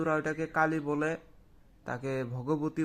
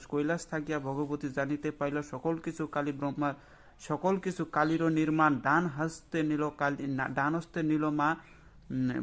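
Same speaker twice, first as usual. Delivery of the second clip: slow mantra recitation. Shown as a demonstration. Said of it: "আমি শুধু আস্তে আস্তে বলতেছি".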